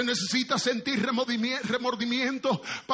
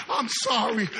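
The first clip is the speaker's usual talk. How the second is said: a flat, repeated mock "I'm sorry"; mock apology; 4 dB louder than usual. Preacher mimicking empty apologies, plainly. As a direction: toss off a hollow "I'm sorry". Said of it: "cuántas veces tú digas".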